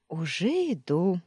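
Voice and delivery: purring. A narrator's reading. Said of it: "мурлыкнула Таня".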